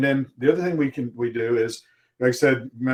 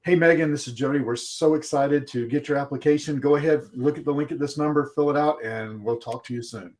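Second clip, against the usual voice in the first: cheerful video message; 3 semitones higher than usual. Shown as a demonstration.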